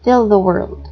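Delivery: one breath, lean on fill; single breath, stress on fill. Shown as a demonstration. Teacher showing the class how it sounds, stress on fill. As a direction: FILL stressed, the world run together. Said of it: "it sounds like this".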